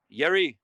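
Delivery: "Yeri" with a Y sound replacing the J; mispronounced Jerry. Retold or imitated. Spanish-speaking cellmate greeting Jerry, "Yeri" with a Y. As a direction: say "Yeri", opening on Y as in yes. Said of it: "they can't say Jerry".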